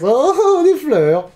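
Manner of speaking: very high, hammed-up delighted squeal; Nia Jax. Nia Jax delighted by her flowers, hammed-up high coo. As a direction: coo in mock wonder, far above your voice. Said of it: "de voir Nia Jax".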